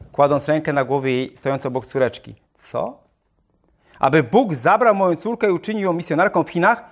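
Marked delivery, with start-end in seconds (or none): 2.5-6.8 mild mock outcry, slightly raised; the mother objects to the missionary, understated; she cried out. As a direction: protest as an indignant mother. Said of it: "krzyknęła".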